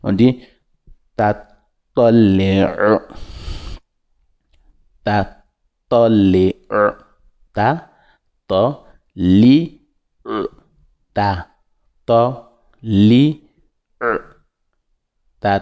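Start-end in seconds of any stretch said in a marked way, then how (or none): 1.9-7.0 toléo pressed from the throat as if strangled; Ta toléo squeezed in the gorge; throat sound. Shown as a demonstration. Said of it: "Toujours dans la gorge, comme on t'a étranglé". 7.5-14.1 Ta, to, li, e one by one; syllable drill. Shown as a demonstration. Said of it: "Toujours dans la gorge".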